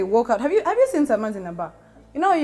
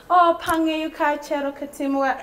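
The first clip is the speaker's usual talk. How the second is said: imitating a returnee greeting in Gulu, higher and shouty; Acholi Sama accent; 7 semitones higher than usual. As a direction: call it out in a put-on Acholi diaspora accent. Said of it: "You go to Gulu and it's".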